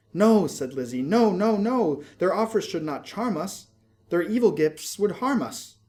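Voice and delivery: loud, high cries of no; Lizzie's frightened refusal. A narrator's reading. Lizzie crying no to the goblin fruit, loud and high. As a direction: refuse in a fearful rush.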